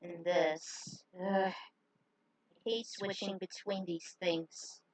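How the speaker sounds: quiet, slow grumbling thought; inner thought. Acted. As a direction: mutter it to yourself. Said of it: "Call thought".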